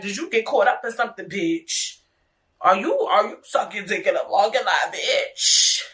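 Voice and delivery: a hint of a mocking girlfriend voice; sassy mock question. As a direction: tease him like a nosy friend. Mocking imagined question to rapper.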